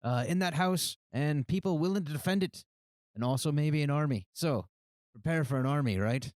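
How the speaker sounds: high, building pep talk to a shout; rallying cry. Acted. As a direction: fire up the troops. Leader rallies the team.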